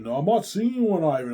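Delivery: mock a wife protesting to her husband; indignant wife. Acted quarrel, wife's denial.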